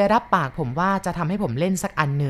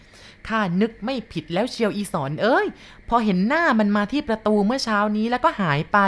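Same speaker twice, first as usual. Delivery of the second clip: foreboding grandma; 4 semitones higher than usual. Acted. Grandma tells Sorn she sensed something wrong. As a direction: say it with dread rising.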